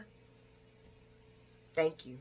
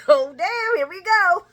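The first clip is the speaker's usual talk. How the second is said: high, loud laughing reaction; laughing groan; 10 semitones higher, 9 dB louder than usual. Real, not acted. Speaker reacting to Scotty's flirt, high and laughing. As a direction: crack up at the line.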